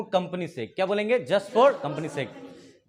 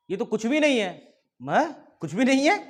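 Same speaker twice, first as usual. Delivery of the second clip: mock incredulous; 4 semitones higher than usual. Boy and ticket checker argue over injury.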